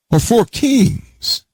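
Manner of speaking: pounding the text's word: "four kings"; emphasis on four kings. Shown as a demonstration. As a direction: stretch "four kings" up high and slow. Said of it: "I'm emphasizing what the word says".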